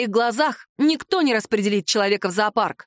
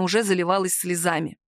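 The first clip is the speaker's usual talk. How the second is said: ordinary delivery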